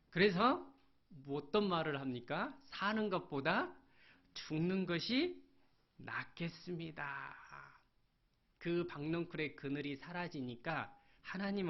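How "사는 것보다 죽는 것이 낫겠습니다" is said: weary despair. Acted. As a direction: let the words sink as he gives up. Preacher voices Jonah wishing death. (천천히 힘이 빠지는 절망)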